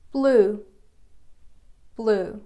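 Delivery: "Blue" said loud with a falling tune; loud headword. Shown as a demonstration. Teacher announces "Blue" to the class, loud and falling. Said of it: "به معنی رنگ آبیه".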